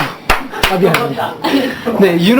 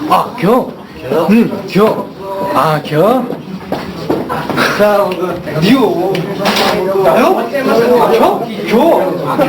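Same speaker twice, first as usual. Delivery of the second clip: Chungcheong dialect; slower than usual. Shown as a demonstration. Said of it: "진짜 간단하지 않아요".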